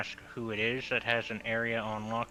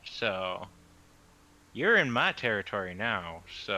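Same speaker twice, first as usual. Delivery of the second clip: lightly drawled southern voice; southern accent. Acted. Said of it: "Why is Aesir suddenly southern?".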